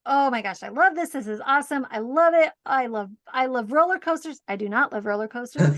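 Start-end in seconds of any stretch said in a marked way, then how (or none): 0.1-4.4 mock excitement. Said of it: "and I thought".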